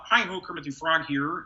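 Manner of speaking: gentle Kermit impression; Kermit the Frog. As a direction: greet like the frog puppet. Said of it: "that Kermit the Frog".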